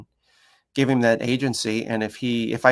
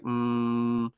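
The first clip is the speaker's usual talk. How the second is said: dog's wary grumble; 4 dB quieter than usual. Retold or imitated. Dog answering the trainer's move, wary grumble. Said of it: "he was like".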